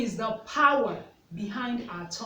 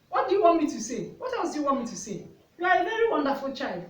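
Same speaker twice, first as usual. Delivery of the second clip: retold brisk, raised-pitch insistence; insistent retort; 4 semitones higher, 3 dB louder, faster than usual. Mother answering her questioning son, insistent. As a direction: fire back quickly, acting out the parent.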